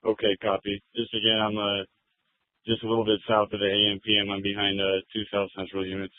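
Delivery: officer speaking over the radio; thin, filtered radio voice; police radio. Real, not acted.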